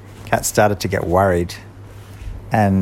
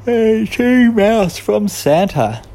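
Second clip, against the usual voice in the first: higher, slow and louder card read; 12 semitones higher, 6 dB louder, much slower than usual. A narrator's reading. Friends reading the present cards, higher and slow. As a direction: call out the label with delight. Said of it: "they read the cards".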